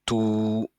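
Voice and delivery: "tout" with a long, held vowel. Shown as a demonstration. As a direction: draw out the vowel of "tout" evenly. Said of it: "ça va me faire le son". (« tout » avec voyelle longue tenue)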